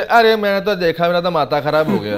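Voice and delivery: loud, exaggerated dramatic critic; over-the-top mock reaction, laughing; mock critic outrage. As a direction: ham up a shocked reviewer.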